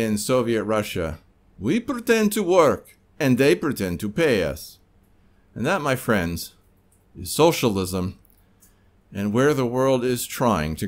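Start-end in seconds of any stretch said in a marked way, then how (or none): 1.6-4.8 put-on Russian accent. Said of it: "if you didn't like my Russian accent".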